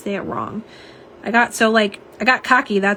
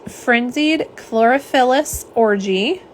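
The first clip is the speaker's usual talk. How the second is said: said slowly; 3 semitones higher, slower than usual. Shown as a demonstration. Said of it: "I have to say it slow".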